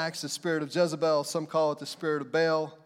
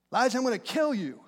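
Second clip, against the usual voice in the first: bully; 6 semitones higher, faster than usual. Retold or imitated. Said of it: "Here comes the bully".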